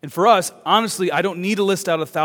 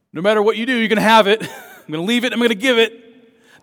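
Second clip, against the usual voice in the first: higher and louder, with a chuckle midway; animated retelling of a firm promise; emphatic paraphrased promise; 7 semitones higher, 8 dB louder, faster than usual. Retold or imitated. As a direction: insist on it in a raised voice. Voices Jesus's promise in everyday words.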